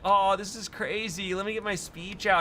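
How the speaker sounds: lightly voiced rock singer; a hint of a dazed acceptance speech; imitating the singer. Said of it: "they're like".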